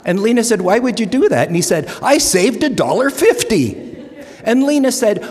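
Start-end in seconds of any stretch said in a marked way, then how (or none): 0.6-1.5 Lena's voice. Retold or imitated. Lena voiced in joke. 2.0-3.8 put-on Norwegian accent. Ole's punchline in joke.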